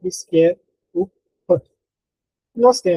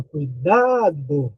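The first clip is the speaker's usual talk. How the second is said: "cuidado" with a long, swooping "DA"; mock call, "cui-DAAA-do"; stress on DA; 2 semitones lower, much slower than usual. Shown as a demonstration. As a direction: call "cuidado" leaning hard on "DA". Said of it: "a mais forte é dá".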